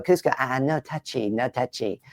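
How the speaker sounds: whiny no touchy; petulant emperor pulling away; a light David Spade style Kuzco. Shown as a demonstration. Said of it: "David Spade as well for things like Cusco".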